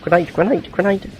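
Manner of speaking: high, urgent grenade call; grenade warning yell. Real, not acted.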